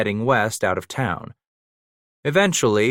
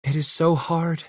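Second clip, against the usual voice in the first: raspy whisper; 7 semitones higher than usual. A narrator's reading. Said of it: "she whispered, her voice a rasp".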